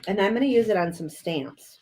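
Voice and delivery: talking while chewing a cough drop; words around a cough drop. Real, not acted. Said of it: "Sorry, I'm chewing my cough drop".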